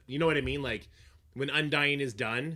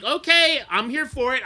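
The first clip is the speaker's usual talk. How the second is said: sassy acceptance; 11 semitones higher, 10 dB louder than usual. Pretend. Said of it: "I'd be like".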